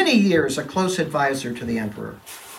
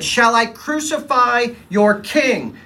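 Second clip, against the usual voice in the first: challenging question; 9 semitones higher, 5 dB louder, slower than usual. Acted. Pilate challenges the crowd.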